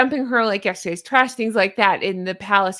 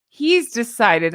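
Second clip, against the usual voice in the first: slow, louder, mocking "he's decided"; sarcastic; 6 dB louder, slower than usual. Real, not acted. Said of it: "I'm using that sarcastically".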